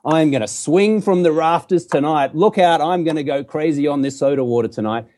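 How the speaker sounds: playful mock boast with a cheeky grin; cheeky joking. Shown as a demonstration. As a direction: joke it off, unbothered. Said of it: "say it with a little cheeky smile".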